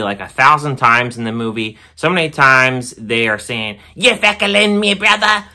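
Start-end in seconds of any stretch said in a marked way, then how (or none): 3.9-5.5 high, hammed-up Irish accent; a mock Irish brogue, pitched way up; half-hearted Irish impression; bad Irish accent. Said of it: "I can't do a really good Irish accent".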